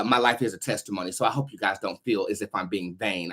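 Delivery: normal talking voice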